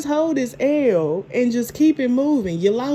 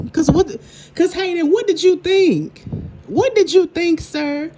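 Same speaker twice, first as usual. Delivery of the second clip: exasperated scolding; 5 semitones higher, 3 dB louder than usual. Real, not acted. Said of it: "scolding Hayden".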